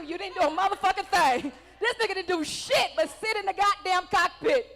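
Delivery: high, very loud comic tirade; outraged shouting. Real, not acted. Comic calls out an audience veteran's service, shouted outrage. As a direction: blast him with disbelief.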